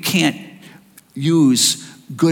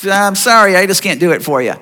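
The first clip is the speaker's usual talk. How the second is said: a lightly voiced Jesus, higher and louder, regretful; imagined Jesus refusing; 5 semitones higher, 3 dB louder than usual. Pretend Jesus turning the blind men away, higher and louder. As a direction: let them down kindly but firmly. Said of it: "he could have said".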